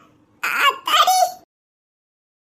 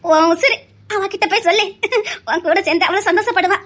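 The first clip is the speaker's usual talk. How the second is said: choked with tears. Acted. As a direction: speak through rising tears. Mother moved, blessing son.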